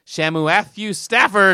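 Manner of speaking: drawn-out, slow name announcement; mock announcer call. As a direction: show off the nickname like a commentator. Trying out nickname as commentator call.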